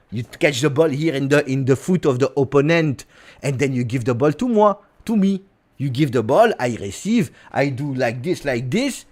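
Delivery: put-on chatty French-accented English sprinkled with French; French-accented footballer making his case; Kefren Turam, French accent. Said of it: "but with a French accent".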